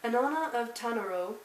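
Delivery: measured read-aloud of a book blurb. Acted. Vlogger reads viewers the blurb on the back, read-aloud. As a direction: read it out like back-cover copy.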